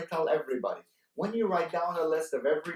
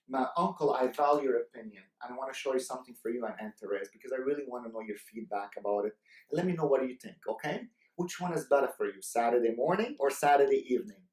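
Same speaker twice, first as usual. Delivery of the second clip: soft, lower and respectful; respectful to uncle; 5 semitones lower, 4 dB quieter than usual. Shown as a demonstration. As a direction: ask the elder's opinion gently and humbly. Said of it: "did you see the tonality".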